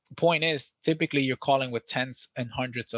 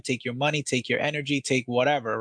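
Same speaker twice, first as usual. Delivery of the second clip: ordinary delivery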